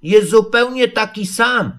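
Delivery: high little creature voice; eager, high-pitched interjection; quick piglet. A narrator's reading. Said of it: "powiedział prędziutko Prosiaczek".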